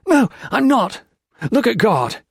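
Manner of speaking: loud, high raving; raving at the priest. A narrator's reading. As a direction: rave at them wildly. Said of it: "Peter Marlowe raved".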